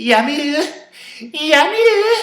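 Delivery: squealed, shrill, very loud, long, high "yummy". Doing her best impression of Krista, saying yummy: Krista impression. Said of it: "this is my best impression of Krista".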